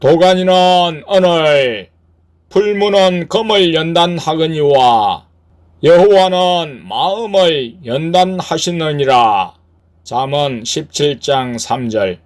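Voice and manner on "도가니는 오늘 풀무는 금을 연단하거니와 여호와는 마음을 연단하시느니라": higher, sustained declaiming voice; scripture proclamation. Acted. Lord's word delivered to the church, raised scripture proclamation.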